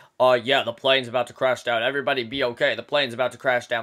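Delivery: low, flat, emotionless deadpan. Describing a movie character as the plane is about to crash: imitating an emotionless character. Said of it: "he says it with no emotion at all".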